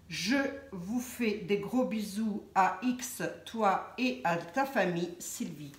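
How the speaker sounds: slow, deliberate letter reading; reading a letter aloud. Acted. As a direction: read to the sign-off, dropping at the end. Lit le mot de Sylvie. (lecture lente et appliquée d'une lettre)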